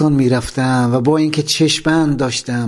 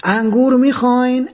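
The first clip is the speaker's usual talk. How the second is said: loud call; 9 semitones higher than usual. Retold or imitated. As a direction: call out to the vendor, mock-loud. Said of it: "با صدای بلند گفت".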